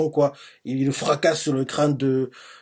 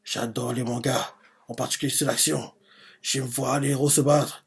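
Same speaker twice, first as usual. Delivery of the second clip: inner thoughts; 5 dB quieter than usual. Retold or imitated. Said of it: "il se dit dans sa tête".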